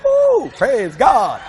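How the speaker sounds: slow drawn-out shout of praise God; relieved praise. Real, not acted. Preacher relieved his wife is not mad, slow praise shout.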